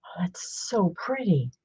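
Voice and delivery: soft whispered admiration; admiring whisper. Real, not acted. Admiring the pretty page for viewers, a whisper. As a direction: whisper it, charmed.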